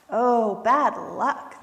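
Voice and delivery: slow, drawn-out storybook sympathy; commiserate, stretching each word; a touch of chipmunk sympathy, slow; sympathizing. A narrator's reading. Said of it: "chipmunk sympathized".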